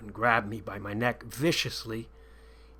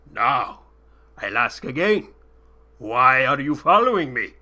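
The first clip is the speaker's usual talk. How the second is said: loud, menacing demand; angry sheik; 8 dB louder than usual. A narrator's reading. Angry sheik interrogating his prisoner, loud. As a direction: press him hard, angry. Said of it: "Returning to anger".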